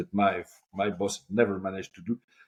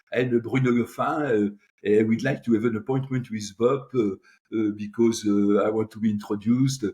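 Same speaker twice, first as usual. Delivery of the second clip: put-on best French accent. Newcomer asking the assistant for an appointment, best French accent. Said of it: "you take your best French accent".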